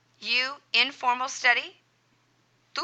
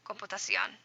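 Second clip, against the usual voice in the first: quiet repeat; 9 dB quieter than usual. Shown as a demonstration. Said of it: "Accent mark over that O".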